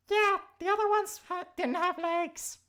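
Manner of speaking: high, loud excited burst; excited squeal. Real, not acted. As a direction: gush about it excitedly. Excited out-of-game aside.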